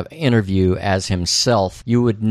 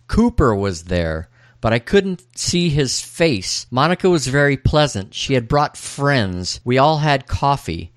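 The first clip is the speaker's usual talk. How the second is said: dream retelling; 5 semitones higher than usual. Acted. Podcaster reading a character's dream aloud, dramatic. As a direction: read it out with lifted, swinging pitch.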